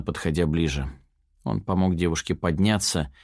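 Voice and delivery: ordinary delivery, nothing marked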